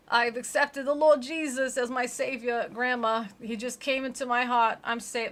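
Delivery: lightly voiced desperate Ashley; mock Ashley. Ashley telling grandma she accepted Jesus, hammed-up.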